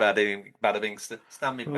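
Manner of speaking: put-on comic Italian accent, tailing off; lightly hammed-up Italian accent; mock Southern Italian accent. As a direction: Englishman struggling through Italian sounds. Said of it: "most perfect Southern Italian accent".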